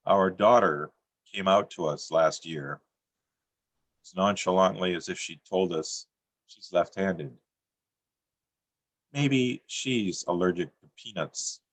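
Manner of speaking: measured, deadpan poetry reading; poem reading. Acted. Poet reading his comic poem to an audience, deadpan. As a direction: read the poem dry and steady, letting lines land.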